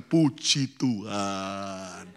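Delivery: low, slow, settled thanks; calm praise. Retold or imitated. Pastor answering the bride, low and calm. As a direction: say it low and unhurried.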